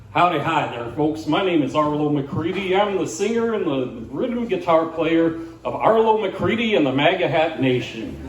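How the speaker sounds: lightly voiced country singer in a selfie video; a hint of folksy bandleader introducing himself. Singer introducing his band to viewers, lightly put-on folksy patter. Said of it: "He says".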